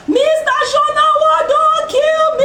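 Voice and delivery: high, loud, drawn-out cry for help; desperate scream. Retold or imitated. Woman in the newsroom screaming at her superior, loud and high. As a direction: scream it like the last straw has broken you. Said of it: "I just screamed".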